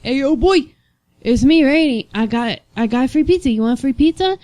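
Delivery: re-enacted upbeat shout-out; retold friendly holler. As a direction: hail your buddies at the drive-thru. Retells hailing coworkers at drive-thru.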